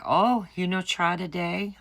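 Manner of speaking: high, loud teasing jab, imitated; mock teasing. Nail tech ribbing a customer about a DIY attempt, mock teasing. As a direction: imitate someone needling, pitched well up.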